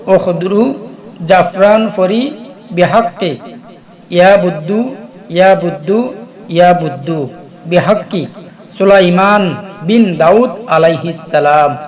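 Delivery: slow, deliberate dictation of the mantra; slowly. Shown as a demonstration. Teacher repeating the mantra slowly for memorizing, slow dictation. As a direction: say it slowly so they can memorize it. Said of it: "আস্তে আস্তে বলতেছি".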